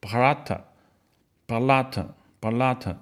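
slow, careful Brata, rolled r and clear t; Sanskrit brata. Shown as a demonstration. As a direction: say Brata three times, slowly and distinctly. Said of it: "梵语这个兄弟怎么念呢". (慢慢清楚地念三遍Brata)

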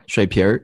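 水瓶儿 with a curled 儿 ending; 水瓶儿 merging 瓶 and 儿; Beijing erhua. Shown as a demonstration. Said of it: "我有练习过的".

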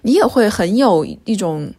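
ordinary talk

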